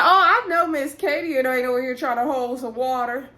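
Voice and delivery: high, incredulous call-out; mock indignation. Her indignant comeback to Katie's refusal.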